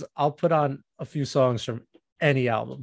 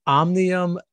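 careful reading; 2 semitones higher, 4 dB louder, slower than usual. Real, not acted. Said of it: "gonna have to read it".

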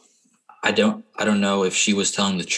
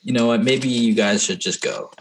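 mildly startled, jumping in; a touch of alarm at the start; startled protest; 3 semitones higher than usual. Acted. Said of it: "he sort of, like, jumps out".

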